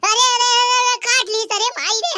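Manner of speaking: panicked cry. Acted. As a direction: yelp in alarm. Snake bites her. (घबराई हुई चीख)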